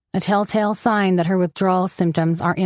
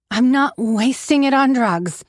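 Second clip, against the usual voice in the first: slow, raised correction; slow, higher insistence on "not wasting"; correcting; 5 semitones higher than usual. A narrator's reading. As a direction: set her straight, word by word. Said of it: "she corrects me".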